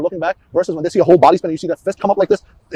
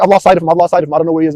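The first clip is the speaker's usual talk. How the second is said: reenacted report; 7 dB louder, faster than usual. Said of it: "I want the volume of your voice to be the same".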